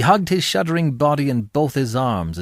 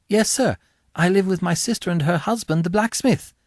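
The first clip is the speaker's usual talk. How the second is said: put-on timid young boy; 5 semitones higher than usual. Boy answers convict.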